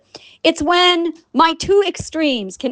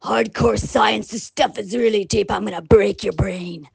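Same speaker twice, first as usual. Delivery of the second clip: serious science voice; 4 semitones lower than usual. Retold or imitated. Showing how she sounds writing her science, mock grave. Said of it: "I sound like".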